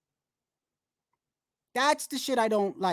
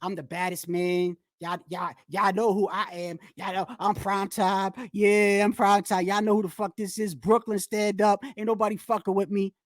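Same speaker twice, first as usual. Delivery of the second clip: mock boastful fighter; 4 semitones lower than usual. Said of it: "all that saying".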